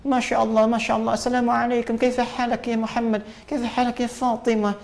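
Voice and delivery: high-pitched Arabic greeting, imitating an Arab speaker; put-on Arab accent, high and lively; Arab accent impression. Shown as a demonstration. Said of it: "Bicara Arab kayak orang Arab".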